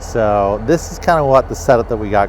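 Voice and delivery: talking fast to beat the clock; rushed. Real, not acted. Filmmaker short on time before watching the kids, rushed and loud. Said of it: "We're a little bit rushed".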